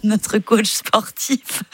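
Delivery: parler en riant toute seule, au ralenti; rire contenu. Real, not acted. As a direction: laisser le rire freiner les mots. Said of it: "Pardon, je ris seule". (pris d'un fou rire discret)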